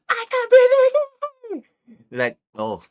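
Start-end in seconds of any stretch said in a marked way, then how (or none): 0.1-1.6 very high, loud mock scream; piercing imitation of a panicked scream; imitated scream. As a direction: shriek it in hammed-up desperation. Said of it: "her scream was like".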